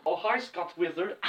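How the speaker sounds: Tommy Wiseau impression. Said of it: "Tommy Wiseau?".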